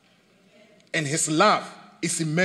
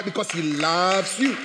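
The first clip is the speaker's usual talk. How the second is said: tender. Acted. Answers the question tenderly.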